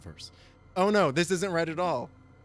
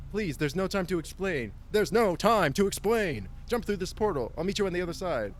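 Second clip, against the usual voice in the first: stoner voice; 3 semitones higher, 3 dB louder than usual. Pretend. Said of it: "a stoner voice now".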